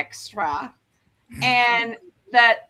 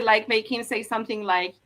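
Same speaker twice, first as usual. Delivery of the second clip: normal talking voice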